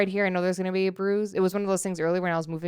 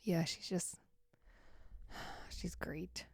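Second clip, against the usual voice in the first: whispered, dripping with irony; sarcastic whisper; 18 dB quieter, slower than usual. Real, not acted. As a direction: breathe it out, clearly not meaning it. Sarcasm about the dog.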